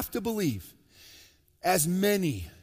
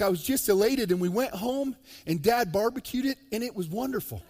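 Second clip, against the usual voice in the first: higher, bright-eyed mock girl, laughing at the end; little girl voice; 6 semitones higher than usual. Pastor voices the girl's essay for the punchline, lightly higher and gleeful. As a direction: play the innocent girl gushing, then laugh.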